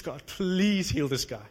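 slow, pleading prayer; desperate plea. Retold or imitated. Preacher praying for a crippled man, slow desperate plea. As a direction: beg God slowly under your breath. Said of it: "desperately crying out for, like, mercy".

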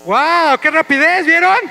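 rising loud amazement; excited. Real, not acted. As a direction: cheer at how fast it went. Celebra que ganaron rápido. (asombro emocionado y fuerte)

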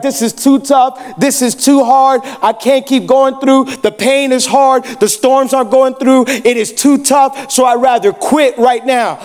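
preacher's acted lament, each phrase drawn out; voicing someone giving up. Preacher voices people in hard moments wanting to quit, slow lament. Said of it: "where you're like".

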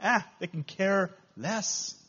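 slow, dismissive shrug of a line; apathetic. Acted. Preacher imitates Christians who ignore the battle, mildly apathetic. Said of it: "but they're apathetic".

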